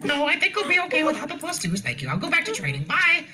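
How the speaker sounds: laughing reply. Acted. Zeal laughs off the offer, high and giggling. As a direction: decline through giggles and hurry off.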